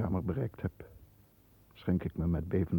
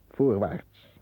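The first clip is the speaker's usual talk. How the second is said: resolute command; 3 semitones higher, 7 dB louder than usual. Acted. Resolves to move on.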